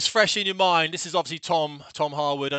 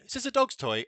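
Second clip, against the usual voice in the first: wife's question; 8 semitones higher than usual. Retold or imitated. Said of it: "And then she went".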